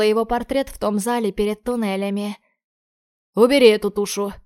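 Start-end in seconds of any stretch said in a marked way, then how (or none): 3.3-4.3 barked order. Acted. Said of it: "бросает он кому-то".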